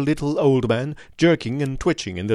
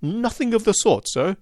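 mock scream; 8 semitones higher than usual. A narrator's reading. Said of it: "screamed the little man".

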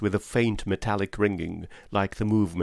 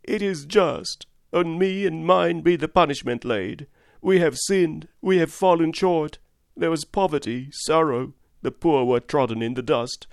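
high, raised voice of a praying curate; fervent curate; 5 semitones higher, 3 dB louder than usual. Acted. Curate praying aloud in hiding, high fervent lament. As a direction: cry out to God, pitched high. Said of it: "began to talk aloud instead of whispering".

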